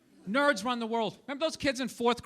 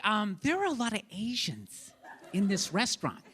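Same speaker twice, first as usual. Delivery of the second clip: hushed aside; 5 semitones lower, 5 dB quieter than usual. Retold or imitated. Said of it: "She's like".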